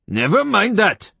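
high, slow, irate dismissal; irritated high-pitched retort; spat out. A narrator's reading. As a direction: spit it out angrily in a high voice. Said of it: "Semerjian spat".

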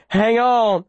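high, urgent command; urgent plea. A narrator's reading. Runner to the wounded girl he carries, urgently pleading. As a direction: urge her to hold on, voice pitched high. Urges wounded Viola while running.

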